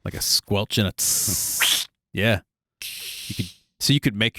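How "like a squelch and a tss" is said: squelch and sizzle. Shown as a demonstration. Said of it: "a squelchy noise and then a sizzle".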